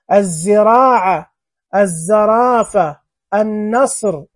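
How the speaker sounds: "الزراعة" slowly as az-ziraa'a, doubled z; "النصر" as an-nasr, no L, careful teacher's model; solar lam, silent. Shown as a demonstration. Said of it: "لام شمسية". ("الزرافة" بزاي مشددة دون نطق اللام)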